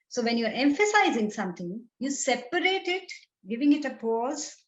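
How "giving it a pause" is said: usual speaking voice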